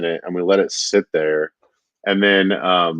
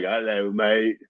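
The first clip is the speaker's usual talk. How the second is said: put-on old-timey English accent; 6 dB quieter, slower than usual. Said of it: "but like an old-timey English".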